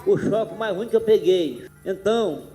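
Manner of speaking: speaking with missing teeth; words slurred through a toothless mouth. Real, not acted. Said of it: "sem dente aqui na minha boca".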